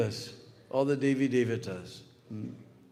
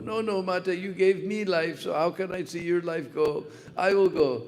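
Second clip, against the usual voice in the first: a calf begging to die in its mother's place; arguing calf; 5 semitones higher than usual. Retold or imitated. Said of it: "they were arguing like this".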